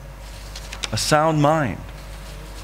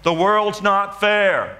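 mild mock scream, higher and slow; retold scream; 4 semitones higher, much slower than usual. Man screaming at the World's Fair sculpture, retold mild scream. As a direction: cry it out slowly, pitched up.

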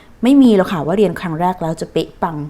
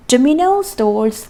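slow choral drill; 4 semitones higher, much slower than usual. Shown as a demonstration. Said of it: "ออกเสียงพร้อมกัน".

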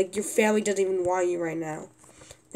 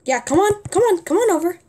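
taunting; 8 semitones higher, 5 dB louder, faster than usual. Real, not acted. Taunting enemies to approach.

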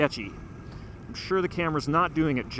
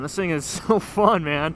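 laughing; 3 semitones higher, 5 dB louder than usual. Real, not acted. Laughing joy on bike.

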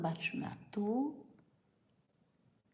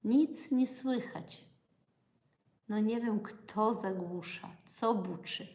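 normal talking voice

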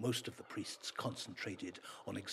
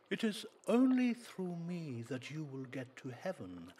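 a lightly voiced pompous priest, higher; a hint of a preaching priest; priest's voice; 7 semitones higher, 3 dB louder than usual.

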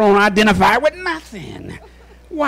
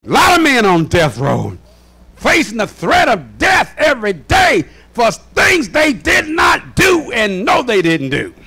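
emphatic, ringing pulpit delivery; impassioned preaching. Real, not acted. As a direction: hammer each point home to the congregation. Preaching at full force.

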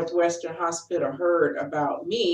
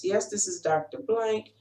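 a hint of a flat, cold doctor reading out news; mildly monotone clinical delivery. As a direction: lightly imitate a detached doctor on the phone. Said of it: "said it in a monotone, cold voice".

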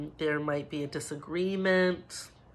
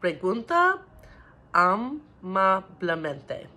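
put-on louder, slow model phrase for kids; 3 semitones higher, 7 dB louder, slower than usual. Shown as a demonstration. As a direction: call it out slowly for the class to repeat. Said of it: "let's say it in Espanol".

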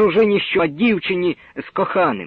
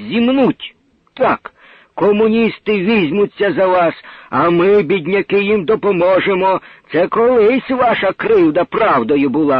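heated retort; 3 semitones higher, 4 dB louder than usual. Acted. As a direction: hammer each claim home. Poor man argues back.

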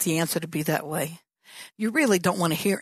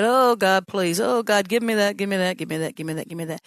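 put-on pleading, childish whine fading to a mumble; begging like a little kid. Preacher mimics a child begging God for a treat, pleading whine. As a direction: beg like a kid wanting a toy. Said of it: "begging and pleading like a little kid".

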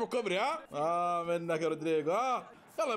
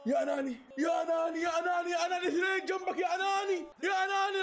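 mock scolding yell; 4 semitones higher, faster than usual. Real, not acted. Yelling at selfish player.

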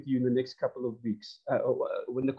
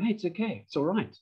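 reassuring leader; 2 semitones higher, 3 dB quieter than usual. Pretend. Leader calming worried staff.

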